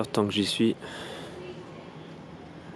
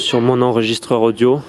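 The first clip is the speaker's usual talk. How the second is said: much louder, almost shouting; 9 dB louder than usual. Shown as a demonstration. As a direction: say "sur mon enregistreur audio" out loud, projecting. Repeats phrase, then loud take.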